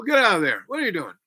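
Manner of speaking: loud, high tough-guy order; mock gangster yell. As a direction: shout him out of the pit.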